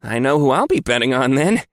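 high gleeful guard voice; eager guard voice. Acted. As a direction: grin through it as the guard. Guard voiced in narrated story.

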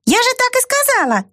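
high, unbothered mouse; tiny voice, matter-of-fact; calm mouse voice. A narrator's reading. Mouse repeats. (спокойный мышиный голосок)

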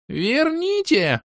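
very high, slow drawn-out wail; an elf demands the silk, very high; shrieking demand. Acted. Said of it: "поднял голос до высоких нот".

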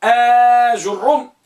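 long-held آ in آج الروم, then doubled ر; careful pronunciation. Shown as a demonstration. Teacher introducing the disputed name, carefully drawn out. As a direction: draw out the opening آ of آج الروم. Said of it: "ضبط العلماء كلمة".

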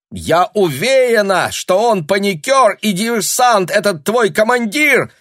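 high, loud, furious cry; indignant shout. A narrator's reading. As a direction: shout it in outrage. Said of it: "закричала Таня, отчаянно картавя от возмущения". (возмущённый крик)

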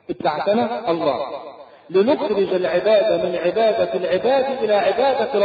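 slowed right down, each word weighed; slow solemn proclamation. Retold or imitated. Rib'i answering Rustum, slow and solemn proclamation. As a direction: declare it slowly and proudly. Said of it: "هو ده علمك أنك على طريق الحق".

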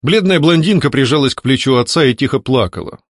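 usual speaking voice

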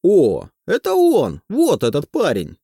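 shouting. A narrator's reading. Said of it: "начинает кричать охранник".

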